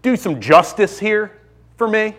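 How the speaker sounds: high-pitched imitation of an upset young son; high, indignant childish appeal; upset child pleading. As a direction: plead with dad like a wronged little boy. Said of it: "He's asking me".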